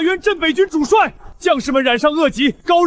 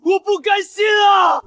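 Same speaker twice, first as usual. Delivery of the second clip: anguished shout; 4 semitones higher than usual. Acted. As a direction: cry it out in despair. Despairing cry, no way out.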